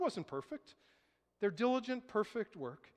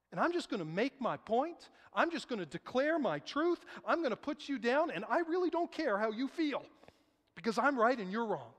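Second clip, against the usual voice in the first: raised, insistent imitation of a stubborn arguer; acted self-righteous defiance; 4 semitones higher, 3 dB louder than usual. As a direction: build into a mock dismissive declaration. Acts out self-righteous, loveless arguer.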